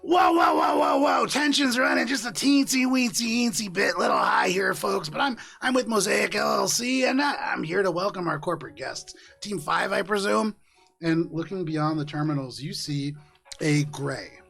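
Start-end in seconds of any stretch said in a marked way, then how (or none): 0.0-10.6 loud, higher showman's patter; corporate greeter calling out. Acted. Greeter calming a tense terminal crowd, calling out loudly. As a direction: call across a crowd, high and loud, then ease off. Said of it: "you hear from the opposite side".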